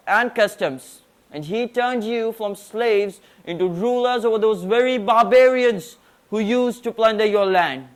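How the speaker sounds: formal declamation; prim precise elocution. Acted. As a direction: deliver it like a stage oration. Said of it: "present a declamation on Alexander the Great".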